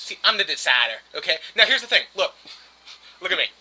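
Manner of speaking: lightly drawled Texan president voice; George W. Bush impression. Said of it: "I'm gonna do it Bush style".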